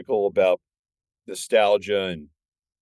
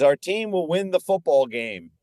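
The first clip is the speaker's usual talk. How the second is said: rallying coach; 7 semitones higher than usual. Retold or imitated. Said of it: "And, uh, he says".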